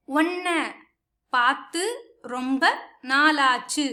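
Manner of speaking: उन्ने पातु रोम्ब नालाचु spoken word by word with pauses; uṉṉai pāttu romba nāḷāchu pronounced separately; Tamil phrase. Shown as a demonstration. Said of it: "ऐसे बोलने के लिए".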